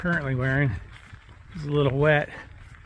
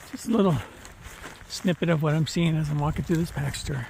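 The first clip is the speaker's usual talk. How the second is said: panting. Real, not acted. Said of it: "sorry I'm panting".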